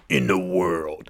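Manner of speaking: low, slow blockbuster announcer; movie trailer voice. Retold or imitated. Host imitating old blockbuster trailers, trailer voice. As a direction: imitate the deep trailer-voice guy, drawn out. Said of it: "the movie trailer voice".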